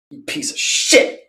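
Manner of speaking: slow voiceless whisper; whispered insult. Real, not acted. Insulting T-Cast Madness in a slow whisper. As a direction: breathe the insult out slowly.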